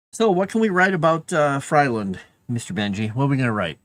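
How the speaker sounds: cooing pet voice. Real, not acted. Asking the cat about writing.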